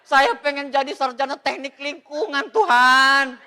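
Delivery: mock plea to God. Mock prayer about career.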